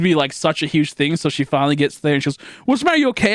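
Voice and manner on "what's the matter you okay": a lightly raised, concerned mother's voice; worried mom. Retold or imitated. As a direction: ask like an anxious mom. Mom asking with worry.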